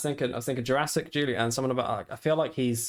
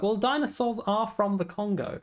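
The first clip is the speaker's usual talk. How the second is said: mock matter-of-fact; 8 semitones higher than usual. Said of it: "You were like".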